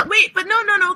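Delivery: high, laughing no no no; laughing protest. Real, not acted. Friend objecting to rule table, laughing shout. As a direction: protest while cracking up.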